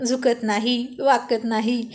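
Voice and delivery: lightly mocking repetition; understated teasing mimicry of bravado; mocking echo. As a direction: parrot a friend's boast to tease them. Friend mockingly repeats the boast.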